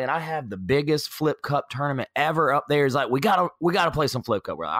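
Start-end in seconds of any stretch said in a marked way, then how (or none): 0.0-2.8 pitched-up North Carolina brag; North Carolina accent. Retold or imitated. Tailgater boasting of his tournament, North Carolina accent. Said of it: "he continued that North Carolina accent". 3.1-4.6 higher, quick North Carolina impression; North Carolina accent. Tailgater urging a game, North Carolina accent. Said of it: "he continued that North Carolina accent".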